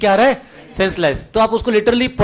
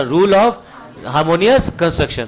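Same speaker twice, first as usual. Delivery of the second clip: stretched out word by word, very slow; slow drilled term; 4 semitones lower, much slower than usual. Shown as a demonstration. Teacher slowly drills the rule name for class, very slow. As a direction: spell out the key term slowly for students.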